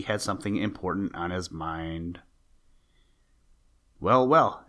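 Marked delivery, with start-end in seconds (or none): 4.0-4.6 surprised exclamation, higher and louder; exclaiming. A narrator's reading. Jimmy Skunk greets the hurrying toad, exclaiming. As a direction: exclaim it in mild amazement. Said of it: "exclaimed Jimmy Skunk".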